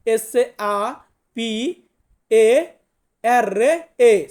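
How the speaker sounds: letters spelled out slowly one by one; spelling it out. Shown as a demonstration. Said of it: "ইতালিতে বলবো সাপেরে".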